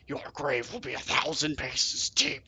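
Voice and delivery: slow, lightly voiced stone serpent; a hint of a rock monster's menace; serpent threat. A narrator's reading. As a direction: promise doom slowly. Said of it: "the serpent tells you".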